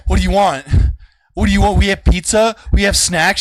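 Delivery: put-on high, loud kid voice; imitated eager little girl. Little girl offering food to a hungry friend, high imitated eagerness. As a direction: offer it like an eager small child.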